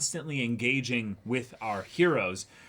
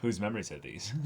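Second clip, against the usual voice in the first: softer put-on character voice; a quiet line in someone else's voice; lightly voiced anime line, softer; character quote; 5 semitones lower, 8 dB quieter than usual.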